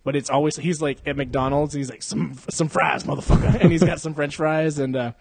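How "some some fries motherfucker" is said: mock tough-guy catchphrase delivery; Dokes. Host retelling a Vine parody at McDonald's, in mock Dokes style. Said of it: "does the Dokes thing".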